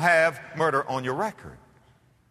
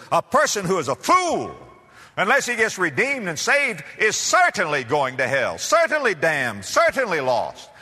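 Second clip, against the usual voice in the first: preaching; 3 semitones higher, 3 dB louder than usual. Real, not acted. Preaching at full force.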